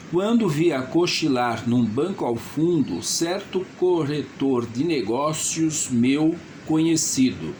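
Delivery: measured, deliberate dictation to himself; strong, clear self-talk. Acted. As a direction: recite the opening paragraph clearly, unhurried at first. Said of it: "falando para si mesmo em voz forte e clara".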